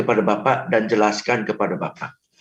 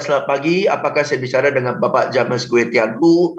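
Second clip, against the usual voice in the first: limp scripted greeting; 3 semitones lower than usual. Shown as a demonstration. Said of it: "Anda bisa bilang".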